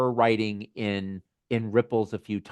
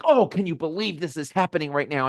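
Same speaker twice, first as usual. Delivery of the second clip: higher, mildly exasperated mock complaint; voice of frustration; 5 semitones higher than usual. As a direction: lightly act out an exasperated inner voice. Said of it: "frustration sometimes is very big".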